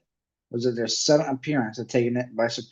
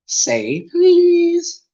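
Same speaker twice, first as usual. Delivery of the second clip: high, loud, drawn-out tease; teasing poltergeist; 7 dB louder than usual. Acted. Peeves taunting Filch to say please. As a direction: make him beg.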